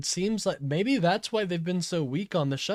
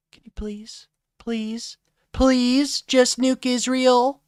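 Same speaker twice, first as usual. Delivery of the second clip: pleading devil; 10 semitones higher, 8 dB louder, slower than usual. Pretend. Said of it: "It's me, Tucker".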